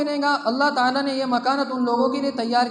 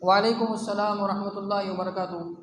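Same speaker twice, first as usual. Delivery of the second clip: वालेकुम अस्सलाम व रहमतुल्लाहि व बरकातुहू said in full, generously; the proper complete reply; full greeting reply; 3 semitones lower than usual. Shown as a demonstration. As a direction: give the whole blessing warmly. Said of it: "नहीं".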